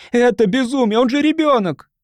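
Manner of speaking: high, outraged protest; indignant. A narrator's reading. Mother defending her boy against the neighbors, indignant. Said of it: "негодующе бросила она".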